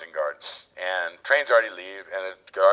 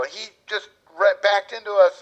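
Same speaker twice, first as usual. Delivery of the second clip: mock high whiny voice; 12 semitones higher, 6 dB louder, slower than usual. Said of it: "And they go".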